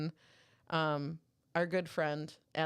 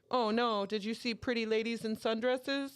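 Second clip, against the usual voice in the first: high-pitched fake sympathy; mocking roast; 6 semitones higher than usual. Dudes at the bar roasting a comedian, mock pity. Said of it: "like, roasting the dude".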